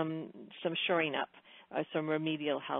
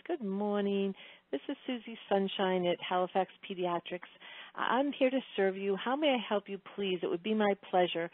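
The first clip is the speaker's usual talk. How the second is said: bright, lilting receptionist greeting; overly cheerful phone answer, sing it; sing-songy voice; 3 semitones higher than usual. Retold or imitated. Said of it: "in a very sing-songy voice".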